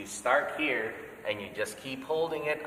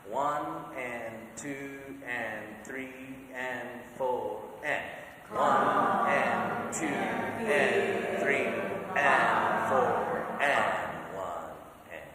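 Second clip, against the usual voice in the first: slightly faster count; slower than usual. Shown as a demonstration. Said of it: "One more time, just a slightly faster".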